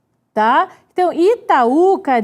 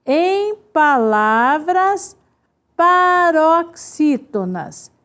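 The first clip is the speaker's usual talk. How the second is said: slow dictation; slower than usual. Shown as a demonstration. Teacher dictating the rule slowly.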